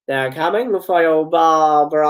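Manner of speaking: mock British accent, stretched-out name. Brother taunting his sister Barbara, mock British accent. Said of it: "He kinda said it in a British accent".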